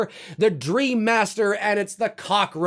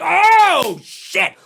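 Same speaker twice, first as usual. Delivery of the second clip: mock fright; 11 semitones higher, 7 dB louder than usual. Reacting to a scare.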